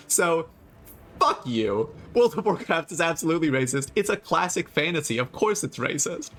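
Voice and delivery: worked-up retort to critics; exasperated, emphatic rant; defiant comeback. Real, not acted. Heated comeback to angry commenters.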